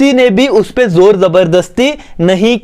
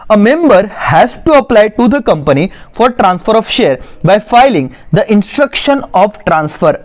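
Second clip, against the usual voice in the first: slow, measured reading for note-takers; dictation reading; much slower than usual. Acted. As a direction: read out the definition slowly, phrase by phrase. Reads notes aloud for dictation. (धीरे-धीरे notes लिखवाते हुए पढ़ना)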